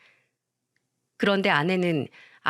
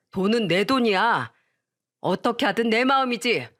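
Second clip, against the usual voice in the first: higher-pitched, scolding wife yelling at husband; shrill-free but raised, furious demand for her bags; angry yelling wife; 3 semitones higher than usual. Acted. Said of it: "화를 내며 소리쳤죠". (화내며 소리치는 아내)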